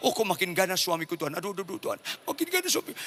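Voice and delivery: mildly acted panicky plea; imitating a frightened wife; fearful muttered prayer. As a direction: pray in rising alarm. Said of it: "makin takut dia".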